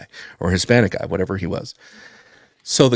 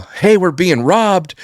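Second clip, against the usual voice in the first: high, slow mock alarm call; mimicked teller yell; 9 semitones higher, slower than usual. Teller calling out that the bank is being robbed, mock yell. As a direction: drag out the warning cry, pitched up. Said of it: "a teller's gonna yell".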